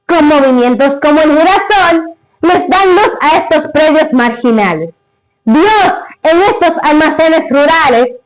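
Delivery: solemn recited verse; grand poetry declamation. Acted. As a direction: declaim it like a poem. Recites the father's poem.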